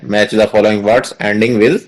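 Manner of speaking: slow, clear classroom dictation. Shown as a demonstration. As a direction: read the heading word by word, very slowly. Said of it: "heading के तौर पर जरूर लिखनी है".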